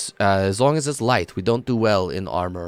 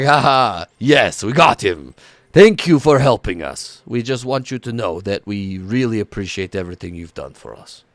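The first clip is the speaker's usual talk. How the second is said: louder, triumphant cheer from the siblings; gleeful thanks; 4 dB louder than usual. Acted. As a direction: gloat happily then gush thanks. NPCs cheer after crushing hug.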